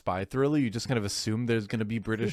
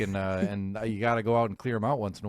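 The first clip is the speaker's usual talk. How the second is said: mock Canadian; 2 semitones lower than usual. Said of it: "He didn't sound Canadian enough".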